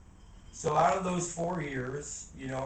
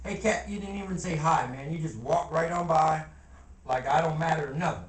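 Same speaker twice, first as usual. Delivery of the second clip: calling out; 2 semitones higher than usual. Real, not acted. Calls out to passing friend.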